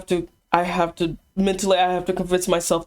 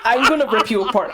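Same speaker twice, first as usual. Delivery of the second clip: laughing; 6 semitones higher, 4 dB louder than usual. Real, not acted. Laughing threat.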